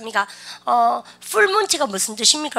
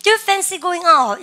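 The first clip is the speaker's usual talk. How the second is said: very slow, higher and louder model sentence; slow model read; 7 semitones higher, 5 dB louder, much slower than usual. Shown as a demonstration. Teacher modelling the phrase slowly for the class. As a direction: stretch it out high and loud for repeating. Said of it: "시죠?".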